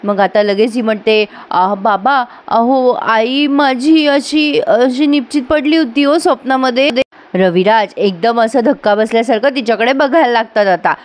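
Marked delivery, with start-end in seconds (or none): 1.5-6.9 slow, higher, dramatic hushed dread; fake fearful tale. Daughter fakes a scary dream to her father, slow and higher. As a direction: stretch the words out as if haunted.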